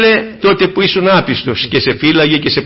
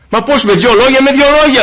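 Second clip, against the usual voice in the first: rising wonder; 7 semitones higher, 3 dB louder than usual. Acted. Preacher marvels at two words.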